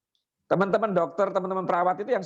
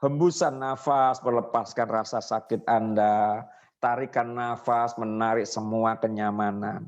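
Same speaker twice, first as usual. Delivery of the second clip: slow, low, soothing hypnotist voice; slow calming induction for a patient in pain; hypnotic induction demo; 6 semitones lower than usual. Shown as a demonstration. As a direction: breathe the words out slowly, lulling. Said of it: "Dibalik dulu".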